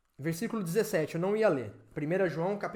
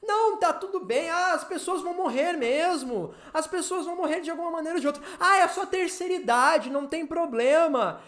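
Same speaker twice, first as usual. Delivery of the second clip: higher-pitched imitation of casual shrugging-off; mock dismissiveness; 5 semitones higher than usual. Preacher imitates Christians relativizing death, mock dismissive. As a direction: mimic someone waving the matter away.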